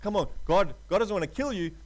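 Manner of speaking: lightly voiced enemy luring the listener; tempter's voice. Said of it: "And the enemy tempted Adam".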